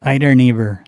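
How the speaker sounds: neighbor said flat and American, a bit loud; American neighbour. Shown as a demonstration. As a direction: try neighbour as an American would. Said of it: "It's horrible".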